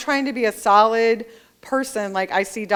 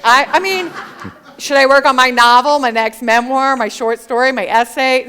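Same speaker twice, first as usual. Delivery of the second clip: loud and high through laughter; giggly, tumbling through her list of projects; laughing; 4 semitones higher, 9 dB louder than usual. Real, not acted. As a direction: rattle off the list while laughing.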